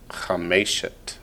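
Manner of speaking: Chameshet said slowly and softly, weight on "me"; slow, middle-stressed Chameshet; stress on middle syllable. Shown as a demonstration. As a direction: lean gently on the middle of Chameshet. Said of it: "but on the word pair form".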